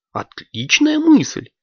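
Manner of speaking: high, squeaky and excited; a high child's voice begging to order fast; eager little girl. Acted. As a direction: bounce with impatience for ice cream. Алёнка agrees.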